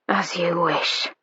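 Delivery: slow voiceless whisper. A narrator's reading. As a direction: breathe it close to her ear. Intimate quiet reply.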